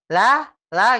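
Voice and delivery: la, la said slanted toward za. Shown as a demonstration. Teacher imitates the student's slanted la. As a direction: let la slide toward za. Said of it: "Ladzi itu miring ya".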